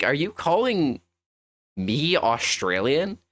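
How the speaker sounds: puzzled question, starting high, drawn out; confused retelling. Retold or imitated. Streamer retelling a mix-up to chat, confused. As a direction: stretch it out in mild disbelief. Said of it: "I was really confused".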